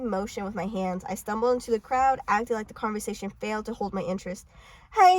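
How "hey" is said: high, loud call; acted indignant shout; shouting after someone. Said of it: "he shouted after me".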